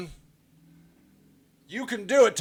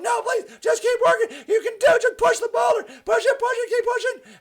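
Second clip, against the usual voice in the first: much higher, laughing cheer; pleading cheerleader. Retold or imitated. Marketer begging the client to keep going, high laughing cheer. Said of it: "I'm like".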